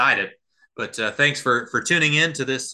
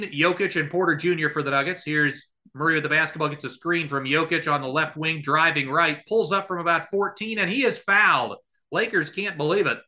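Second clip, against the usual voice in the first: raised, energetic game call; live play-by-play; 3 semitones higher than usual. Acted. Podcast host calling the game live for his listeners, energetic play-by-play. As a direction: call each play as it happens, pitched up.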